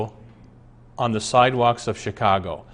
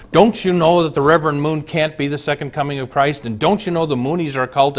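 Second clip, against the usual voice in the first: aggressive lecturing; 3 semitones higher, faster than usual. Retold or imitated. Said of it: "starts using the Bible as a machine gun".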